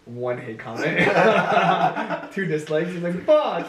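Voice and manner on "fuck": sharp high mock yell; retold yell. Retold reaction to dislikes.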